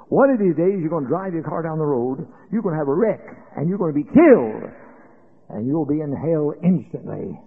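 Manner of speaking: a loud, rising warning of doom; stern warning. Retold or imitated. Preacher warns the injured man he will die in a wreck, loud stern warning.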